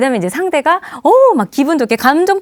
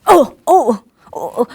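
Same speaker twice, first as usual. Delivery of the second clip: dad playing shot; hammed-up gasps of being hit; pretend dying groans; slower than usual. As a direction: react as if shot in play. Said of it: "이랬는데 아빠가".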